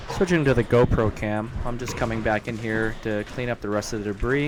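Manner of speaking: muffled, breathing through a respirator mask. Real, not acted. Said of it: "I sound like Darth Vader because I realize I probably should have had my respirator on".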